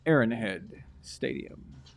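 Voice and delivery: slow, smooth radio announcer; sexy radio voice. Shown as a demonstration. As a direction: stretch it out like a late-night DJ. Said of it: "That's my sexy radio voice".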